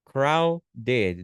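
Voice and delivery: "Crowded" split into two beats; syllable by syllable. Shown as a demonstration. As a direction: count out both syllables of "Crowded". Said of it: "duas sílabas".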